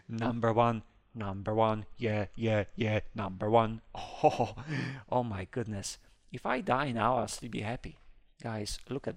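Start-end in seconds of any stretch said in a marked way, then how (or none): none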